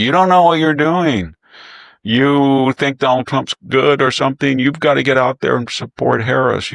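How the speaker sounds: high, loud, mock-scolding Obama. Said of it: "and said, basically".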